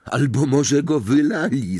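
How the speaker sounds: lightly voiced boy calling out; eager call. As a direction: call out the hopeful guess. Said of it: "zawołał Ron".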